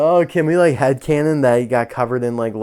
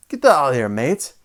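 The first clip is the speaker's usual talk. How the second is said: a bad, lightly raised imitation of Captain Longleggy's accent; 2 semitones higher than usual. Vlogger mocking toy Captain Longleggy in his accent, badly imitated.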